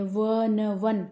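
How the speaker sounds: व then न then वन, drawn out slowly; sounding out one. Shown as a demonstration. Teacher sounding out वन for the class. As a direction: break वन into its sounds व, न, वन. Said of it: "वन eyed में व आती है".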